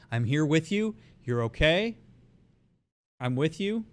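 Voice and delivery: gentle, affirming reassurance; reassuring. Shown as a demonstration. Coach voicing words for someone mid panic attack, affirming. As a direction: tell them they're okay. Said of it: "empathize with what it is that's happening".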